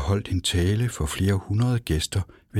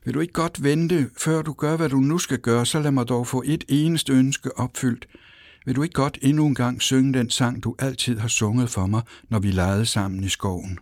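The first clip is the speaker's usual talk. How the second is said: put-on much higher, pleading child's voice; pleading call; 6 semitones higher than usual. A narrator's reading. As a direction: beg him in a high, desperate little voice. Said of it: "råbte hun". (høj, bedende barnestemme)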